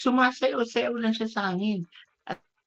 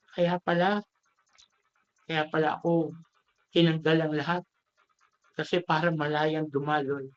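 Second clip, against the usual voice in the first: understand at last, voice lowered with a touch of tears; tearful realization; 4 semitones lower than usual. Acted. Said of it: "naiyak yung bamboo".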